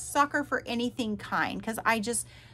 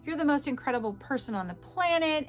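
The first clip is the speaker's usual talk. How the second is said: imitating gushing messages, higher pitch; mock sweet talk; 4 semitones higher than usual. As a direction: lightly parody a loving text. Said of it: "all the sweet little kind gestures and messages".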